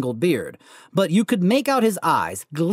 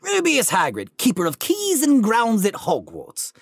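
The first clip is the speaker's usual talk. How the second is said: chuckling Hagrid; 3 semitones higher than usual. Acted. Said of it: "The giant chuckled".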